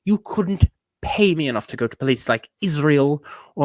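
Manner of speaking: whimpering whisper. Real, not acted. Complaining about travel.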